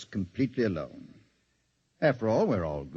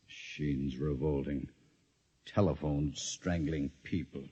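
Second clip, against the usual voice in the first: scoffing musing; 7 semitones lower, 5 dB quieter, slower than usual. Acted. Doctor scoffs alone over a smoke.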